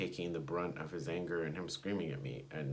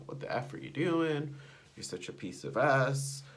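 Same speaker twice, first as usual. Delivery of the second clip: mock angry rant; 5 semitones higher, 4 dB louder than usual. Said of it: "he would just pop off and tell them".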